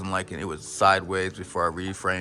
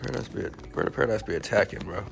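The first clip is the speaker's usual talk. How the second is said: mock outrage; 4 dB louder than usual. Real, not acted. Complaining plant is attacking him.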